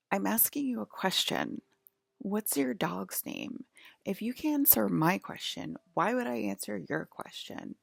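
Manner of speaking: mildly irritated retold demand; grumpy, bitter old lady. Old lady refusing a stranger's cigarette request, grumpy imitation. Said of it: "extremely grumpy and bitter".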